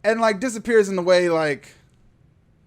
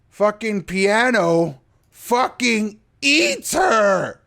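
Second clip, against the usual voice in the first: slow outraged exclaim; 4 semitones higher, slower than usual. Real, not acted. Outraged at film scene.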